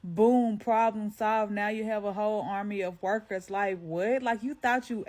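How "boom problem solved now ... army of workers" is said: mocking a commenter. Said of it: "Here's somebody gonna tell me".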